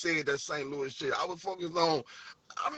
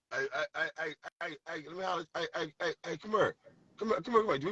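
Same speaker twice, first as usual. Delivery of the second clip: put-on calling out to girls; 3 semitones higher, faster than usual. Shown as a demonstration. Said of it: "we try to talk to new girls".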